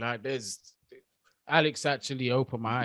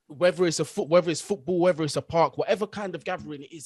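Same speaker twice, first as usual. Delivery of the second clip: each "whether" louder and higher; rising outrage; 5 semitones higher, 5 dB louder than usual. Real, not acted. Condemning the attacks, he builds to a loud pitch. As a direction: build the list to a near shout.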